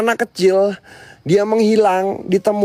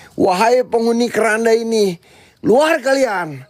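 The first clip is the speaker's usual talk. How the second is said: solemn summoning. Acted. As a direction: intone it like a ritual summons. Summons spirits of the coffin.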